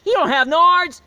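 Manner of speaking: high, loud yelling back; high shouted protest. Retold or imitated. The horse shouting back at the leader, high loud shout. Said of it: "the horse like".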